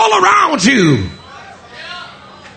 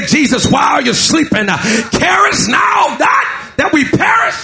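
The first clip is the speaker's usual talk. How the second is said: crying out in fear; 2 semitones higher than usual. Acted. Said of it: "start crying out for fear".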